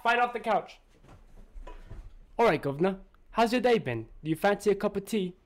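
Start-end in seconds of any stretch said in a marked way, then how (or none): 2.4-5.3 put-on amateur go at a British accent; attempted British accent. Host takes his one attempt in a contest, British accent. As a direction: put on your best British accent, governor style. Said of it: "My attempt".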